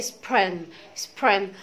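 سبرين with a curled r and no g; spring with soft r. Shown as a demonstration. Teacher finishing the spring drill. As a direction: curl the r in سبرين. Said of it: "ما بتخبطش الار في الحلق".

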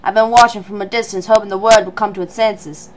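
low character voice, attempted Australian; failed Australian accent. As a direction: try an Australian accent and miss. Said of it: "This is not Australian at all".

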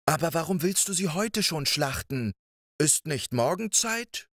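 lightly voiced wife talking him down; giant's wife.

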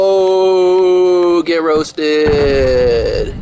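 gloating taunt. Real, not acted. Gloating after winning the argument.

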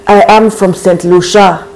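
Saint Lucian English with French tune, stress pushed to the end of "Lucia"; gentle take on a Saint Lucian French-flavoured accent, final syllables stressed; French-style Saint Lucian intonation. Retold or imitated. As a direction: imitate the Saint Lucian French lilt, leaning on the last syllable. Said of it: "stress is all flowing towards that last syllable in such a French".

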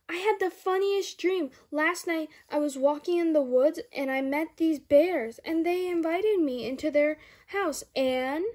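bursting to tell mom her dream; a little girl rushing through her story; excited little girl. Acted. Sally tells her dream.

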